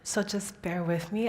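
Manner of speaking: weak, breathy and winded; short of breath. Real, not acted. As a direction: speak a little out of breath. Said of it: "I might be a bit of short of breath".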